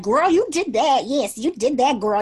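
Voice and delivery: put-on high, loud sassy "girl" voice; playful code-switched praise; African American accent. Shown as a demonstration. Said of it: "don't reverse code switch and be like".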